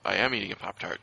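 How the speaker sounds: talking with a full mouth. Real, not acted. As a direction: speak around a mouthful of Pop-Tart. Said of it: "his mouth is full of rubbish".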